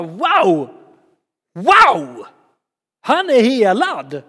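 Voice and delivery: loud, high wow of wonder; amazed exclaiming. Retold or imitated. Crowd marvels at the healing, loud and high. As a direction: shout out the miracle. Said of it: "men så bara".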